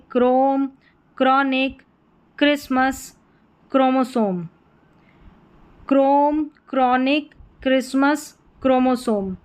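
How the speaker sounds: क्रोम, chronic, Christmas, chromosome, each opening on kr; CHR as kr. Shown as a demonstration. Teacher modelling CHR words for learners, kr demonstration. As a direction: model each word separately with a hard kr. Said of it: "सीएचआर को क्र करके पढ़ेंगे".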